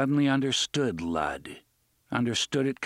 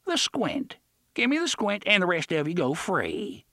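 demanding pirate; 8 semitones higher than usual. A narrator's reading.

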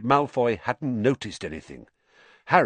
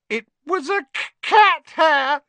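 much higher, breaking wail with a stammer; howled; 7 dB louder than usual. Acted. Hermione wails to the boys about her cat face, high and stammering. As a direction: wail it out in distress. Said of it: "she howled".

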